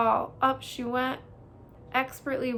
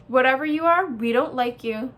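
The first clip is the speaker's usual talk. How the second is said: menacing bear; 6 dB louder than usual. Acted. Brother bear menacing, louder.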